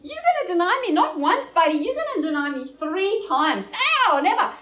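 lightly voiced Jesus warning Peter. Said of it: "Jesus said to him".

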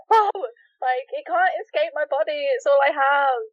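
overdramatic. Retold or imitated. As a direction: ham up the tragic plea. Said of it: "the drama of it".

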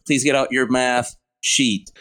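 slow, careful "sheet" with long ee; deliberate correction, drawing out "sheet"; clearly said "sheet". Retold or imitated. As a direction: spell out the vowel in "sheet". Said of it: "I said sheet, like a sheet of paper".

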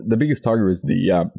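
talking between sips; speaking around a mouthful of drink; while sipping a drink. Real, not acted. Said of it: "sorry, I'm drinking".

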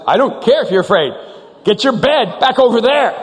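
retold exasperated outburst; annoyed brother. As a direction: order your brother away, irritated. Acted bedtime quarrel between brothers.

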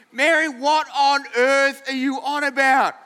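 mildly hammed-up bafflement; acted incredulous question; exasperated husband. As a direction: demand an answer, stressing each word. Acted Joseph demands an explanation.

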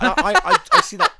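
high, loud giggly words; laughing. Real, not acted. Cracking up after imitating the singing stranger, laughing. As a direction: break into laughter mid-sentence. Laughing at her own impression.

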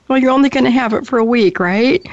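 mock-reassuring, hurrying past the orange; slightly different tone. Daughter to mom after the dye turned orange, lightly imitated sheepish reassurance. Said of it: "but with a slightly different tone".

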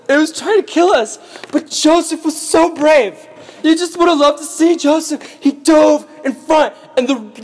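high-pitched, hammed-up wailing; fake grief. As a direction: bawl out a badly faked tragic story. Brothers fake grief to their father.

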